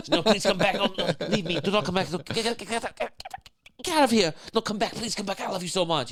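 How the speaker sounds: very high, loud, hysterical character impression; hammed-up squealing melodrama; Mango. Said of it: "Mango, Chris Kattan on S N L".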